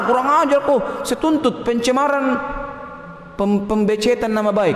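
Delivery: high-pitched indignant outburst, settling as it goes; mock angry. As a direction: act offended, threatening to sue. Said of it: "marah dia". (pura-pura marah karena tersinggung)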